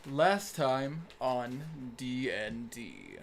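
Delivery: slow, drawn-out show intro; announcer voice. Acted. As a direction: announce it like a TV recap. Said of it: "I have a better announcer voice".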